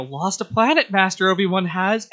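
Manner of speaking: high, loud, gleeful little Yoda voice; Yoda with childlike enthusiasm. Retold or imitated. Yoda teasing Obi-Wan to the younglings, with childlike glee. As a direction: chirp it like an excited child playing Yoda. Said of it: "he does it with this, like, childlike enthusiasm".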